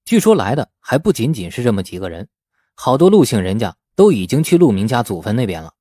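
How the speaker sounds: plain reading voice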